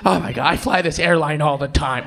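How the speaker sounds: whiny passenger. Retold or imitated. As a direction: grumble like an entitled flyer. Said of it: "Everyone's like".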